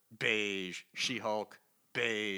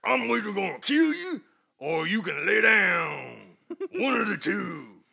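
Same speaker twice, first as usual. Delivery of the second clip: menacing threat; 7 semitones higher, 9 dB louder, slower than usual. Retold or imitated. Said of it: "clearly implying that".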